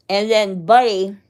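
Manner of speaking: talking with a mouthful of food; words muffled by food in the mouth; mouth full. Real, not acted. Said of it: "I hate talking with my mouth full".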